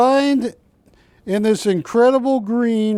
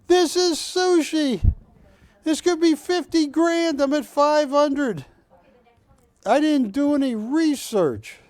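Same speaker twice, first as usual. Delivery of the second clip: excited hype; 6 semitones higher than usual. Real, not acted. Auctioneer hyping the bid.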